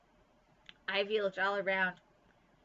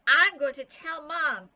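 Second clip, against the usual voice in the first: loud threat to tell; threatening yell; 7 semitones higher, 12 dB louder than usual. A narrator's reading. Nancy yells her threat after Bean, loud. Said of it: "yelled Nancy".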